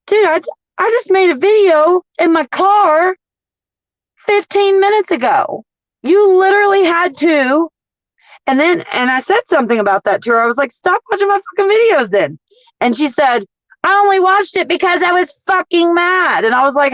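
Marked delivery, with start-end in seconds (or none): 0.1-7.7 retold heated reply. Arguing back at the manager. 10.7-12.4 retold angry comeback. Arguing with the manager. 13.8-16.4 imitating the angry manager. Quoting manager in the argument.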